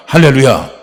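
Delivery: a loud, ringing hallelujah. Real, not acted. Preacher crying out hallelujah to the church, loud. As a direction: proclaim it out to the hall.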